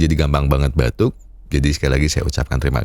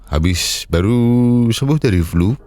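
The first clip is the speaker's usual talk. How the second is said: slow, congested apology; stuffed-up cold voice. Real, not acted. Host apologising to viewers for his voice, congested. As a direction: talk through a blocked nose after flu. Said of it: "bindeng, sedang pilek".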